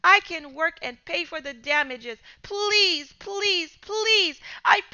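desperate pleading. Acted. Scared boy pleading not to call police, desperate. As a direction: plead frantically.

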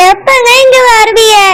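crying as she asks when he will come back; a wife who breaks down in tears pleading; tearful plea. Acted. Lonely wife pleading tearfully with her husband to come home.

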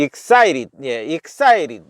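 EXCITED said "ik-SAI-rid". Shown as a demonstration. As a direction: flap the T in EXCITED into a light R. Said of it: "그 T가 알 발음이 나죠".

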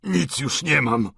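anguished, drawn-out admission; despairing cry. A narrator's reading. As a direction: cry it out, dragging each word. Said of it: "zawołał, rwąc sobie włosy".

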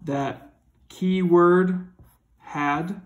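slow down to flag the keyword; teacher stressing a keyword; slow emphasis. Shown as a demonstration. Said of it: "you need".

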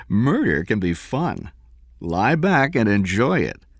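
a hint of a teasing woman; lightly voiced woman. Liz teasing Cameron.

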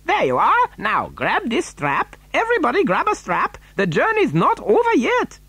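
high, lively character voice; rally everyone in a high, lively voice; excited instructions. A narrator's reading. Wonka to tumbling passengers, high and lively.

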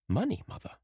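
put-on high, startled young girl; a daughter protesting in disbelief; girl's indignant cry. A narrator's reading. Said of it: "she cried".

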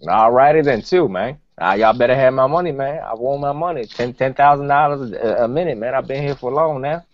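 lightly voiced rapper demanding his money; rapper impression. Host as a rapper demanding pay from the podcast, light rapper voice. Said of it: "you got big man Gucci Mane on here".

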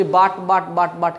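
but with a hard sounded T, repeated; local pronunciation. Shown as a demonstration. Teacher imitating a learner's habit, hard-T "but". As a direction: repeat "but, but", T fully pronounced. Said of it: "এরকম বলেন".

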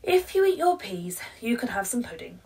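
high, loud opening then a quick hushed promise; coaxing mum. Acted. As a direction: tempt her with pudding. Mum bargaining with child.

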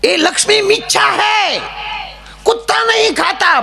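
very high-pitched shouted sermon parody; mock preacher scream. Comic mimics gurus who scream their advice, high mock screech. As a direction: screech it out like an overblown TV guru. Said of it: "અમુક તો બહુ રાયડું નાખે".

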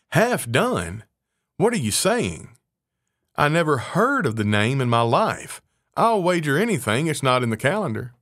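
astonished. Acted. Mouse shocked by the name.

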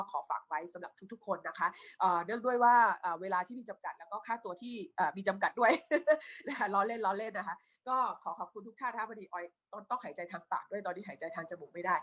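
พูดแบบจมูกตัน หายใจทางปาก; เสียงคัดจมูกจากหวัด; คัดจมูก. Real, not acted. (เสียงคนคัดจมูก)

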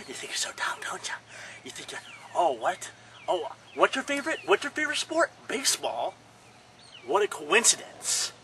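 hushed mock-villain taunts; mock menacing hush. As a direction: creep up on the toy quietly. Quiet menacing taunt in skit.

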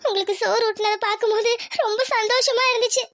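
choked-up, halting explanation; tearful. Acted. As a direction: explain through tears, pausing to collect yourself. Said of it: "இப்ப அதுக்கு எதுக்கு அழுகுற". (அழுகையோடு தயங்கி)

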